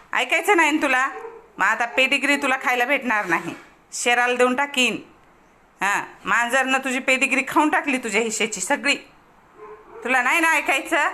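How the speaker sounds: loud, mock-stern telling-off; scolding a pet. Real, not acted. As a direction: scold a naughty pet loudly. Scolding her pet, withholding food.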